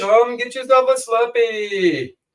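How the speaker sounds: very high-pitched, badly faked Indian accent. Teasing the other speaker, in a put-on Indian accent. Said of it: "stop talking like that".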